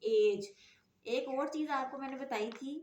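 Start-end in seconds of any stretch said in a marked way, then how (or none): 0.0-0.5 एज said louder, ending firmly on a j sound; soft g answer. Shown as a demonstration. Teacher answering her own question, louder and clear. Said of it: "हमारी sound क्या हुई".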